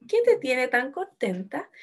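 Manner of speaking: slow question, rising at the end of "contenta"; entonación de pregunta. Shown as a demonstration. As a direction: ask it slowly, lifting "contenta". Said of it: "usé un signo de pregunta". (pregunta lenta, "contenta" sube al final)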